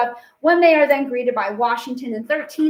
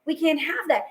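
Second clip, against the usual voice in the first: higher-pitched, quick mock complaint; arguing; 4 semitones higher than usual. Jefferson complaining to Washington about Hamilton, arguing. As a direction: act out a petty grievance, pitched up. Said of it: "Jefferson's arguing".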